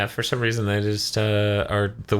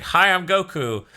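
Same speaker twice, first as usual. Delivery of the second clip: cheery Goku; 9 semitones higher, slower than usual. Retold or imitated. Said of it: "he's like".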